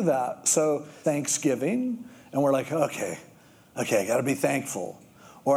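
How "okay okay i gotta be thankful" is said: low, quick, reluctant mumble; grudging. Retold or imitated. Preacher mocking a grudging churchgoer, reluctant mutter. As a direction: sigh it out like a chore. Grudging Thanksgiving duty mocked.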